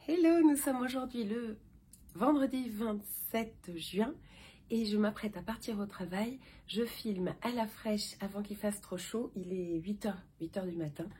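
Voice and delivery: croaky just-woke-up morning voice; morning vocal fry, first words today. Real, not acted. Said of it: "J'ai ma voix du matin".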